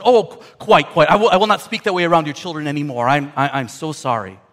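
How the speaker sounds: quick, stammering apology; eager, flustered bird saying sorry; chastened parrot. Acted. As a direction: gush an over-polite promise to behave. Parrot apologises after the freezer.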